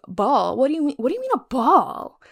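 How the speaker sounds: high, loud, incredulous questioning; mock-astonished, pitch leaping up; baffled disbelief. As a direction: act out being thrown by the news. Retold baffled reaction to ball.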